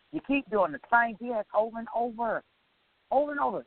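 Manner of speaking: exasperated rant. Retold or imitated. Ranting about someone's repeated wrongs.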